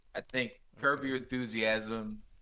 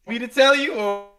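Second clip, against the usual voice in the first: higher and louder, laughing through it; laughing impression; 8 semitones higher, 9 dB louder than usual. Retelling a Curb scene to friends, laughing through the line. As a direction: crack up while quoting Larry. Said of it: "he goes".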